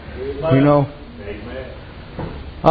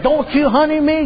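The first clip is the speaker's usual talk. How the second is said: higher, sassy retort from the wife; mock angry wife; 8 semitones higher than usual. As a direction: throw his sweet word back at him. Wife snapping back at husband.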